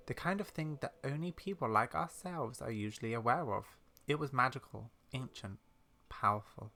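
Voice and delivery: measured, mysterious game-character reading; storyteller character. Acted. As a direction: softly recount an uncanny experience.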